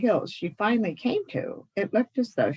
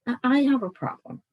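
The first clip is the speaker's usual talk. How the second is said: little bird voice; 7 semitones higher, 4 dB louder than usual. Acted. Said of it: "speaking for the first time like any other bird".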